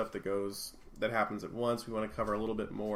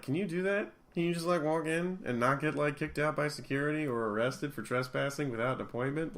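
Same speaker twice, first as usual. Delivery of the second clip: raised pitch, disbelieving questions; mildly acted-out disbelief; incredulous questioning; 5 semitones higher than usual. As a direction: ask as if it can't possibly be allowed. Host acts out own disbelief.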